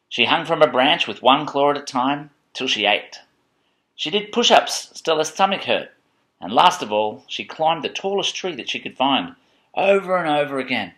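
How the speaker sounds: measured picture-book narration; reading to children. A narrator's reading.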